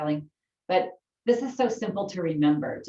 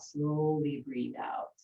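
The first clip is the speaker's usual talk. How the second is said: slowed down; slower than usual. Shown as a demonstration. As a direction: slowly breathe out, drawn out slowly.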